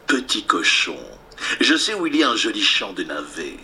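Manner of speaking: lightly voiced low wolf; coaxing wolf. Wolf lures the pig to a turnip field, lightly coaxing low voice.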